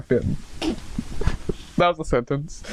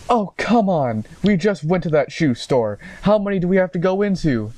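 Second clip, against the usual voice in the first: put-on higher-pitched exasperated boyfriend; complaining; 6 semitones higher than usual. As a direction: whine about too much shopping. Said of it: "He was complaining".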